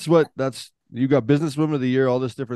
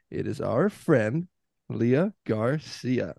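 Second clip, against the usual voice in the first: announcer. Acted. Podcast host formal introduction.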